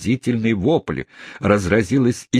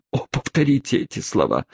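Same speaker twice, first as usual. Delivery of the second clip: higher, eager exclamation; eager exclaiming; 6 semitones higher than usual. Acted. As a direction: beg her eagerly. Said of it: "воскликнул он". (пылкое восклицание)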